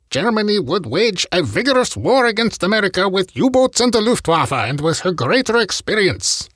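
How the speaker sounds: high, put-on German accent for Hitler; bad German accent. Podcast host quoting Hitler to Matsuoka, bad German accent. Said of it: "bad German accent".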